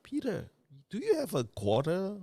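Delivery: a quick mock of someone's nosy question; mimicking the asker. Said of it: "somebody was asking me".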